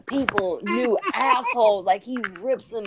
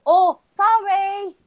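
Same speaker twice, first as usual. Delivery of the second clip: higher, slow mock Asian apology; mock Asian accent; 9 semitones higher, 5 dB louder, slower than usual. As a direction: mimic a driver's sing-song apology. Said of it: "tell him what they said".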